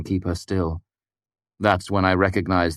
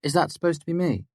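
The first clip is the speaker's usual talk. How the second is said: lightly voiced scornful young woman, higher; Devi, scornful; 10 semitones higher, faster than usual. A narrator's reading. Devi brushing off Kvothe's threat, scornful. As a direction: sneer it from behind crossed arms.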